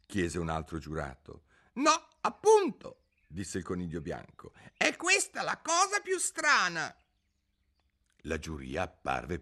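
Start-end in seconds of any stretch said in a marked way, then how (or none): 0.1-6.9 very high, squeaky fussy rabbit; high-pitched rabbit herald in court; white rabbit. A narrator's reading. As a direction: chirp like a nervous little rabbit.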